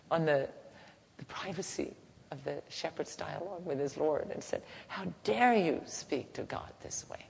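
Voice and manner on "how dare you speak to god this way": indignant. Acted. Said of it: "Moses couldn't bear it".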